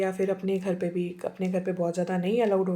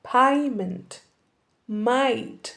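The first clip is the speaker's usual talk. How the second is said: Canadian accent; 4 dB louder, much slower than usual. Shown as a demonstration. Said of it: "कैनेडियंस".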